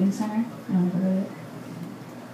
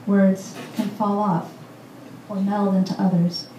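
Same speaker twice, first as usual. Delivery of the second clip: measured poem recital with deliberate pauses; poetry reading. Acted. Poet reading a poem for Hayley to an audience, measured recital. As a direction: read it out phrase by phrase, letting lines land.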